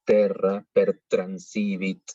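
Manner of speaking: Terra, per transivit con t española. Shown as a demonstration. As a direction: di las t como en español. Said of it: "como una T nuestra". (t española en terra y transivit)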